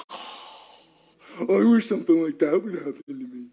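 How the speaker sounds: envious friend. Retold or imitated.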